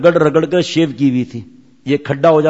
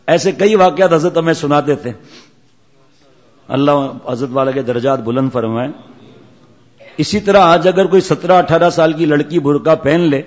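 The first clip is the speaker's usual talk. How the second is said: ordinary talk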